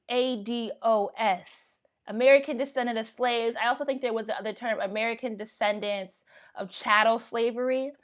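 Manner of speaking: talking with food in mouth; words round a bite of food; mouth full. Real, not acted. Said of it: "I have food in my mouth".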